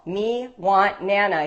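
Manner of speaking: "Me want Nana" said slowly, word by word; toddler voice, slow. Retold or imitated. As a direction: savour "Me want Nana" like a proud parent repeating it. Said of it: "I was equally thrilled".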